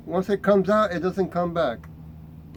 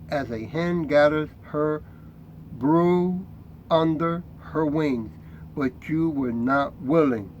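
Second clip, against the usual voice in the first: scripture reading. Acted. Reads scripture aloud.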